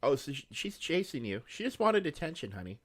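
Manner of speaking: high sweet pet voice; talking to the cat. Real, not acted. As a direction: coo at the cat.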